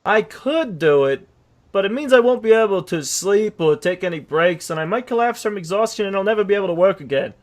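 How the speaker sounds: narrating horse, lightly voiced; storytelling horse. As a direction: tell your sad tale as a horse. Horse narrates his tale.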